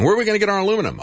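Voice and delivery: high-pitched imitated panic; mildly hammed-up worry; mock freak-out. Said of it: "Japan is freaking out".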